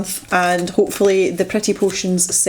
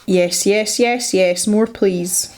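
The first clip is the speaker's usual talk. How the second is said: greedy glee; much slower than usual. Real, not acted. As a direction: savour it like a treat. Craving more of the paint.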